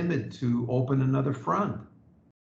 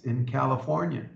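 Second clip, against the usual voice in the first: ordinary delivery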